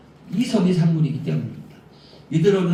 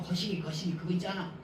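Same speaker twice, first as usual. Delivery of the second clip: imitating president; 3 semitones higher, 13 dB quieter than usual. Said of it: "뭐 이렇게 말을 하셨죠".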